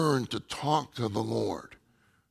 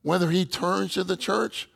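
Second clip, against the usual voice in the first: higher-pitched, urgent retold plea; desperate pleading; 5 semitones higher than usual. Praying brother urges the others for a new one, mildly desperate. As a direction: imitate a brother earnestly pleading for a newcomer. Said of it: "even in a desperate way".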